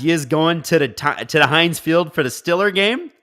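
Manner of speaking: playful Yinzer question; Pittsburgh accent. Acted. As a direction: read it out as a mock Pittsburgh local. Reads chat message written in Pittsburghese.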